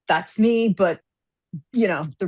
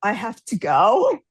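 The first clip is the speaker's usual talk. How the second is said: dazed retreat; 3 semitones higher, slower than usual. Acted. Acted agent fleeing, overwhelmed.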